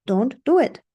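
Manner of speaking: ordinary delivery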